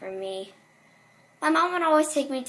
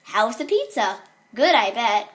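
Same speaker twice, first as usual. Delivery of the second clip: lightly voiced cheery stage mascot, louder; punchy, upbeat character greeting; animatronic greeter; 6 dB louder than usual. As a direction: work the room like a pizzeria mascot. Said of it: "saying things like".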